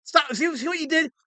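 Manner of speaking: play-yell at the chat to stop laughing; mock angry scolding. Scolding the chat over camera.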